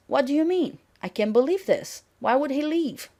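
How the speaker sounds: can't take the news in; disbelief. Acted. Teacher spelling out a shocked girlfriend's meaning, disbelieving. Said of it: "the meaning is".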